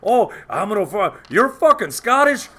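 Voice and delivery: high, loud mock Irish rant; slightly hammed-up Irish indignation; Irish accent. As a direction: re-enact a heated Irish-accented argument. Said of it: "started talking in an Irish accent".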